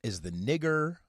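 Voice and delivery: high, loud mocking quote; mock quote of a famous singer. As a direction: ham up a grand pronouncement. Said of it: "He said".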